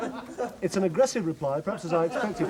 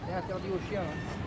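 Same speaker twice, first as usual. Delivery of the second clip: put-on French accent; 8 dB quieter than usual. French official forbids.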